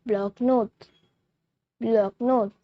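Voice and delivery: bloc-notes said blok-NOT; French bloc-notes. Shown as a demonstration. Teacher showing viewers how to say bloc-notes, clear demo. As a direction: model bloc-notes for learners. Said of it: "We say notebooks in French".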